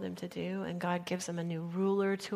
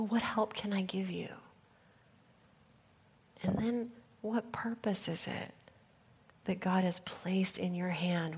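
hushed call. Retold or imitated. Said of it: "hear that call to each of us".

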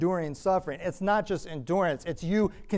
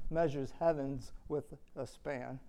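softer and slower, measures drawn out; hushed awe; 8 dB quieter than usual. Real, not acted. Preacher marveling at God to the congregation, hushed. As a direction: let the words sink in with wonder. Awed at God's greatness.

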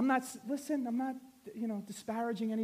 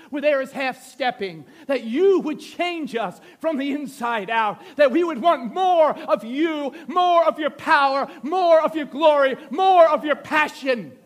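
public prayer building to a shouted plea; fervent prayer; 3 semitones higher, 12 dB louder than usual. Real, not acted. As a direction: start measured, climb louder and higher to a cry. Leads an impassioned prayer, building.

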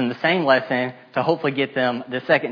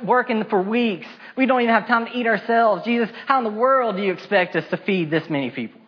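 whiny complaining; 6 semitones higher than usual. Acted. Disciples complaining, protesting to Jesus.

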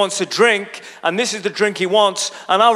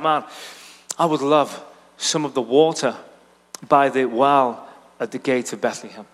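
wistful sigh; 5 semitones lower than usual. Retold or imitated. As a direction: sigh it out, dreaming of home. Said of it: "he just sighs".

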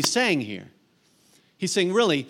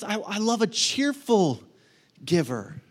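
God speaking; slower than usual. Retold or imitated. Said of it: "'Cause he says".

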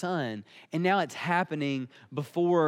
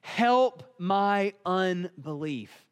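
slow, drawn-out acted plea; crying out; 3 semitones higher, much slower than usual. Father of the child cries out to Jesus, pleading. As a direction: cry it out word by word, very slowly. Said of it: "cried out and he said".

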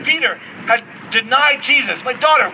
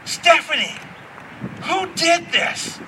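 dad questioning; 7 semitones higher, 5 dB quieter, slower than usual. Retold or imitated.

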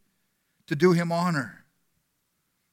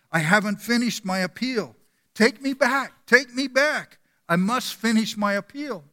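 urgent pleading; 5 semitones higher than usual. Acted. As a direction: beg to be taken back, urgently. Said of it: "exclaimed Doctor Duff".

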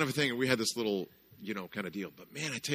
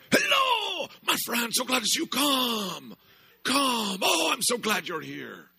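high, loud, fast shouted welcome; over-the-top greeter; 14 semitones higher, 5 dB louder than usual. Retold or imitated. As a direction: overflow with joy at every customer. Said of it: "this is pre-Starbucks".

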